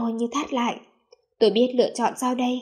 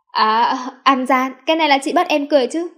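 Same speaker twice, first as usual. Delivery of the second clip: playful protest; 3 semitones higher, 7 dB louder than usual. A narrator's reading. Narrator accusing his sister of cheating, mock-indignant.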